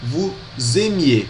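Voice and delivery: vous aimiez with s sounded as z, voo-zeh-MYEH; vous aimiez, the s linked as z; vous aimiez shown with the liaison. Shown as a demonstration. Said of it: "vai ficar assim".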